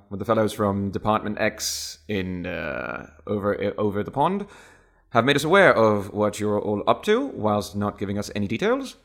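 lightly voiced upper-class British official; brief the team in mild Received Pronunciation; high-class British accent. Department D man briefing agents over dinner, light high-class British accent. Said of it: "high-class British accent".

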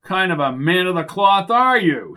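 high, strained acted shout at held-back volume; understated shouted rebuke; mock shout. A narrator's reading. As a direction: scold from the pulpit without full volume. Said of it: "shouted Gallagher, pointing his finger".

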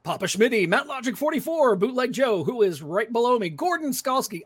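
speaker voice. Acted. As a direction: boom it out like a PA announcer. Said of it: "I've put on the speaker voice now".

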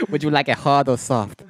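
high, lilting cashier impression; flamboyant cashier voice. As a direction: camp it up like the cashier. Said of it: "he said it in such a gay way".

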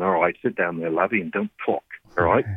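lightly put-on Australian accent of a father; imitated Australian accent. Father settling his son in the press box, imitated Australian accent. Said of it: "in his Australian accent".

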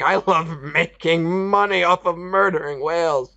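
mock villain. Mocking the whaler.

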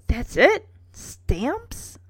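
underwhelmed, questioning lift on each bit; mildly incredulous and unimpressed. Acted. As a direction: ask it as if let down. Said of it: "clearly unimpressed".

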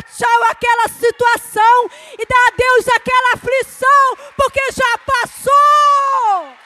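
loud, high preaching build; preacher rising to full force; fiery preaching. Acted. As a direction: preach it to the congregation.

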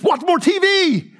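demonic voice. Acted. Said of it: "impersonation of demonic voices".

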